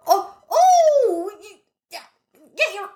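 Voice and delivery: high, slow, drawn-out "oh"; calming vendor voice. Pretend. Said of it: "I go".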